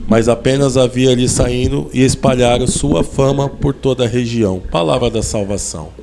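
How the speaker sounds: scripture read aloud in measured phrases; solemn Gospel reading. Real, not acted. Preacher reading Matthew to the congregation, measured Gospel proclamation.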